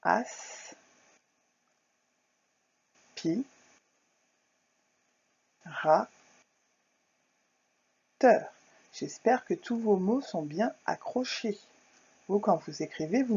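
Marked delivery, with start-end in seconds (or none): 0.0-8.5 "Or, di, na, teur" split with long pauses; syllable by syllable. Shown as a demonstration. Teacher to pupils, spelling out syllables slowly. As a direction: cut "ordinateur" into slow syllables. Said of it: "un aspirateur".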